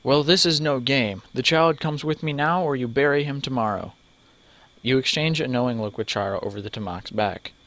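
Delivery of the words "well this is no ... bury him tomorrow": menacing threat. Acted. Villain threatens child.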